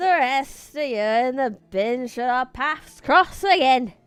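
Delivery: put-on broad Yorkshire accent. Voicing a character's line from the book in a thick Yorkshire accent. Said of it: "my attempt at the thickish bloody Yorkshire accent".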